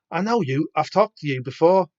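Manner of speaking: slightly put-on Scouse accent; attempted Scouse accent. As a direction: have a brief go at Scouse. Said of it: "don't do a Scouse accent".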